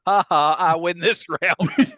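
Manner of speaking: gloating laugh, slow and loud; triumphant laugh. Real, not acted. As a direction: crow over the win with a laugh. Gloating after dark joke.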